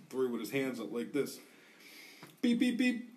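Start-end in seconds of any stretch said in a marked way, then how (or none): 2.4-3.1 high beeping imitation of a metal detector; high mock beep, beep, beep. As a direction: squeak it out like the detector going off.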